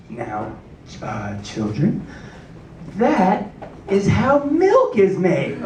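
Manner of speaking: low, slow, hesitant teacher voice; stall, then deliver the lie slowly; a teacher's slow flustered fib. Retold or imitated. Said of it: "she said".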